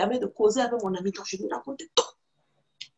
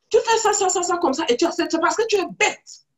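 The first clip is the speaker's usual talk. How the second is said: mocking scolding; 6 semitones higher, 3 dB louder than usual. Friend mocks her, retold.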